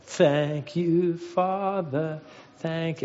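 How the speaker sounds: lightly imitated pious little girl praying; drawn-out, reverent child's grace, gently acted; mock pious. Middle child leading grace at the family table, piously. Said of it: "very piously and was like".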